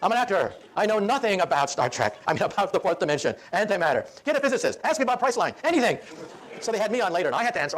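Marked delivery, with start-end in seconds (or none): 0.0-6.0 frustrated outburst. Retold or imitated. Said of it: "he pounded on the desk".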